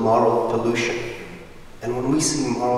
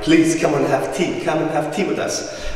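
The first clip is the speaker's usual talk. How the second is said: pleading, higher-pitched invitation; vigorous insistence; 4 semitones higher than usual. Retold or imitated. Dad urging the neighbour to tea, vigorously insistent. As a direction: insist like an eager host. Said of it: "really vigorous about it".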